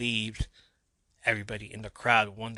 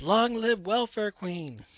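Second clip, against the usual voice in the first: much higher, louder, slow drawn-out yell; crowd yell; 11 semitones higher, 5 dB louder, slower than usual. A narrator's reading. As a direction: bellow it from the stands. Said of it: "Someone in the crowd yells".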